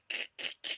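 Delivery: breathy, unvoiced laugh demo; Zim laugh. Shown as a demonstration. Guest shows how her laugh ends, breathy Zim laugh. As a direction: imitate the wheezy end of a laugh. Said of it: "I even put my Zim laugh".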